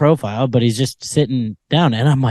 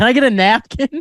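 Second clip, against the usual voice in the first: put-on panicked shout, pitched very high; 10 semitones higher than usual. Retelling how a fan called to the bartender: imitating someone yelling.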